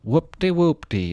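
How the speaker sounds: sing-song mock cheer. Mock celebration.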